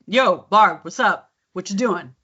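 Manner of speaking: casual American street greeting; a hint of brother's casual accent; brother's AAVE-style voice. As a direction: imitate her brother hailing her. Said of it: "my brother will say".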